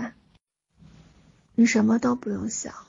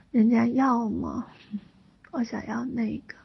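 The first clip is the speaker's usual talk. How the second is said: cutesy whiny pleading. Pretend. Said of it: "还有一点点撒娇的感觉".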